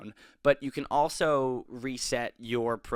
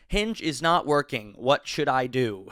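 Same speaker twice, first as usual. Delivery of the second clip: high, loud read cracking into laughter; over-dramatic read that ends in a laugh; laughing at own reading; 3 semitones higher, 5 dB louder than usual. Real, not acted. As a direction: blurt the question high and loud, then burst out laughing. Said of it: "It's just the way I read it".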